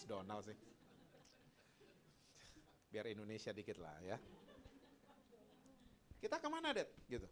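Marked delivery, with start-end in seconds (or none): 6.2-6.9 put-on high, softer girl's voice; high-pitched child's question; daughter asking dad. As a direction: imitate a schoolgirl asking her father.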